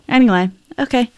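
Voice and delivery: Anyway okay in a Canadian accent. Real, not acted. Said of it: "I always do a Canadian accent".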